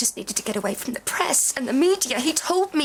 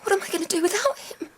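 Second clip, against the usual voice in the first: crying; 7 semitones higher, faster than usual. Real, not acted. Grief after learning of death.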